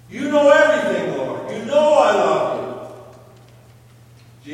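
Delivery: Peter's third answer cried out loud; pleading outburst. Acted. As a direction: let it burst out, loud and insistent.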